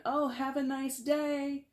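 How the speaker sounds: usual speaking voice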